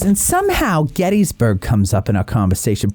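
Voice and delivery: lightly affected mom impression; hint of the chatty mother; mother's voice. Mother recounts the conversation, lightly affected voice. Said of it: "And she goes".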